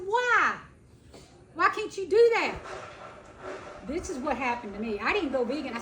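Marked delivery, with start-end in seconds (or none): 0.1-2.5 high, loud pleading why; insistent loud question. Retold or imitated. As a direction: push back hard, asking why. Her retort to husband.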